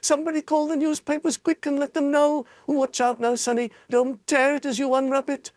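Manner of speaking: high, eager bystander; a voice from the jostling crowd; excited crowd voice. A narrator's reading. Crowd member calls out to Charlie, high and eager.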